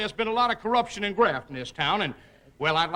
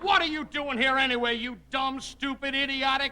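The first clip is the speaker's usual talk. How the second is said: exasperated scolding; 4 semitones higher than usual. Acted. Mayor berates the bumbling man.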